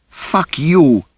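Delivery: very high angry outburst; furious shriek. A narrator's reading. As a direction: spit it at him as she wrenches free. Rosie breaking free.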